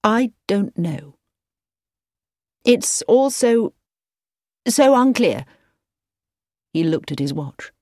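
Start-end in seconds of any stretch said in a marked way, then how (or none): 0.0-5.4 slow, halting and hesitant; slowly. A narrator's reading. Edward puzzling over Anna Sheila, speaking slowly. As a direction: drag each phrase out, unsure. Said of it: "Edward said slowly".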